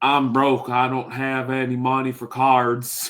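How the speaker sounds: put-on Louisiana bayou accent. Imitating a card collector who claims to be broke: Louisiana bayou accent. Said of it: "That's my Louisiana accent, the bio accent".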